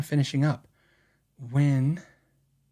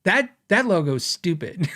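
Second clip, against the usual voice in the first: wife's blunt verdict; 2 semitones higher than usual. Retold or imitated. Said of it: "And my wife goes".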